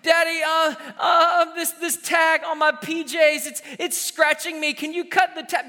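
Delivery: put-on a child complaining about a pajama tag; child stalling. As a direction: play a kid dragging out bedtime. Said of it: "I've heard everyone in the book".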